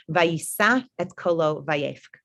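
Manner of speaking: slow, measured reading of the verse; slow Torah reading. Shown as a demonstration. Teacher reads the verse aloud to her class, slow and measured. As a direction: read the Hebrew slowly, word by word. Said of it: "this phrase that I really wanna focus on".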